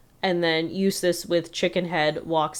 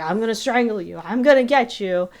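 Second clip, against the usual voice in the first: mild mock shout, pitched up; Eustace; 5 semitones higher, 3 dB louder than usual. Eustace shouting as he chases Courage, mock angry half shout. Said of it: "Eustace is just shouting".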